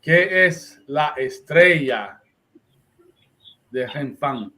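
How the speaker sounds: slow, pointed question landing hard on "estrella"; stress on estrella. Shown as a demonstration. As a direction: spell it out slowly, pressing on "estrella", then pause. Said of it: "Estoy poniendo el punto en la estrella".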